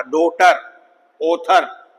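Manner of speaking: "डॉटर, ऑथर" punched with long open O. Shown as a demonstration. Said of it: "long ओ की sound है".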